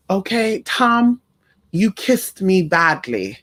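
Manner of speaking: put-on Mexican accent. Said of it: "her cute little Mexican accent".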